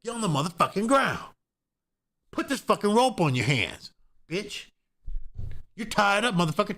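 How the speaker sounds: high, barking gunman orders; a criminal yelling orders with a gun; threatening criminal. Retold or imitated. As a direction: play the armed robber snapping commands. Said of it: "point his gun at you and say".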